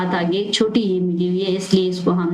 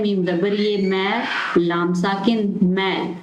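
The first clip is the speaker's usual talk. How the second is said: slow spelling out; slower than usual. Shown as a demonstration. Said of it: "next है".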